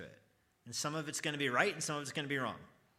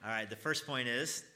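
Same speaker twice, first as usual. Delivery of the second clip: louder call for the answer, stress on first; louder prompt. Shown as a demonstration. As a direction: push the class to answer, rising on first. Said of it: "we'll try it one more time".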